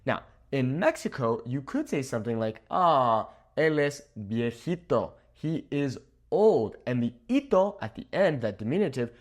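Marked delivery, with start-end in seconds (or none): 2.7-6.8 slow, drawn-out 'Ah, él es viejito'; softened, affectionate. Acted. Teacher models kind way to call someone old, softened. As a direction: say it kindly, taking your time. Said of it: "makes it a little bit softer".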